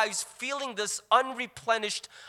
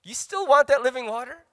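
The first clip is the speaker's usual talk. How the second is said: mocking; 4 dB louder than usual. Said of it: "And you're like".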